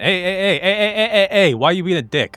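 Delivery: high-pitched repeated heys; mock protest. Man objecting to an insulting badge, high mock protest.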